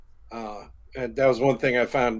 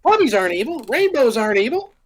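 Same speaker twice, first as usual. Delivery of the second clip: high, loud wrestling promo; Juice Robinson promo; 14 semitones higher, 3 dB louder, faster than usual. Acted. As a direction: shout it like a wrestler on the mic. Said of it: "Do a Juice Robinson promo".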